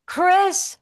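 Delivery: parrot voice. Retold or imitated. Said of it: "going for a ride".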